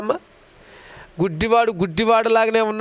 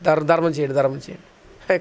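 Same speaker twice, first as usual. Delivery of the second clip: pleading beggar; 6 semitones lower than usual. Retold or imitated. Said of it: "కంగారు కంగారు అయిపోయి".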